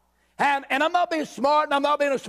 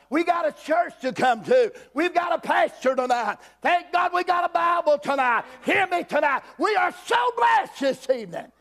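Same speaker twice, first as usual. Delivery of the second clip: rising preacher's shout; 3 semitones higher than usual. Real, not acted. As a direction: build it up until you're shouting for joy. Preacher builds to a climax.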